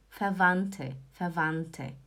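FERVANTE with no D sound, a clear T before the final e; German pronunciation demo. Shown as a demonstration. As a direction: say "fervante" slowly and low, T not D. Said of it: "Você não fala o D".

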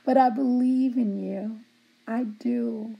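breathy whispered belief. Real, not acted. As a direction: whisper it like a secret promise. Whispered encouragement after teasing.

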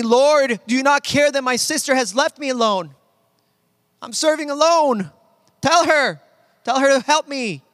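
condescending Martha. Acted. Martha telling Jesus her sister left her alone, condescending. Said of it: "maybe with a condescending tone of voice".

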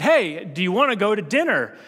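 asking a third time, patience running thin; a bit frustrated. Retold or imitated. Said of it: "he's getting a little bit frustrated".

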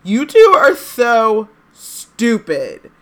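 high, loud, slow crying wail; tearful wail. A narrator's reading. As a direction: sob the words out. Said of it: "Hermione burst into tears".

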